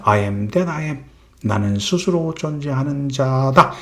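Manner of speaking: slow, soft voice of God; lightly voiced God, hushed and slow; God speaking. God answering Moses, slow and hushed. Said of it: "하나님이 말씀하죠".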